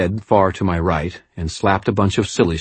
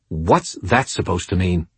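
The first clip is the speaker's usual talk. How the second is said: waspish. Acted. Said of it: "Madeline's voice turned waspish".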